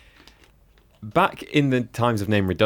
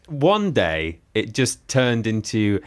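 normal talking voice

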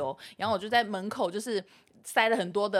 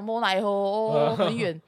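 imitating his drawl; slower than usual. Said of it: "他讲话我就讲".

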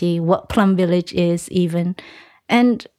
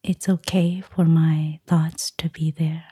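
guided meditation. Acted. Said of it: "give us a short guided meditation".

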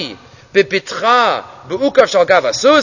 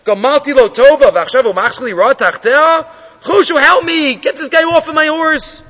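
mock screaming appeal; 2 semitones higher than usual. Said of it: "the ani turns in screaming".

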